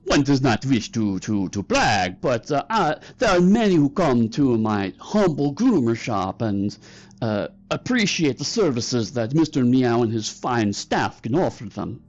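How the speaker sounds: lightly put-on fake Korat accent; mildly hammed-up Korat accent; Mister Meow. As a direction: boast with false modesty in a fake Korat accent. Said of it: "fake Korat accent you've ever heard".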